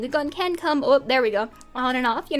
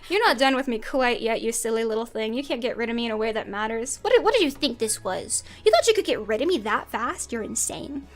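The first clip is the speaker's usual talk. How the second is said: menacing taunt; 3 semitones lower than usual. Acted.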